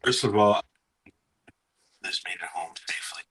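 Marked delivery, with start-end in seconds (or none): 2.0-3.2 muffled, whispery bad-mic sound; like talking down a tube; through a tube. Real, not acted. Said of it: "Talking through a tube".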